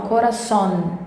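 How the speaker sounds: "coração" as "corazón", tongue-tip N at the end; clear final N. Shown as a demonstration. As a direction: land "corazón" on a firm N. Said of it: "perto dos dentes e do céu da boca". ("coração" como "corazón", com a língua no N final)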